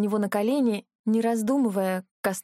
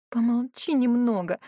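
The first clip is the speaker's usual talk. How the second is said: irritated; 2 semitones higher than usual. Acted. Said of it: "попросила раздражённо".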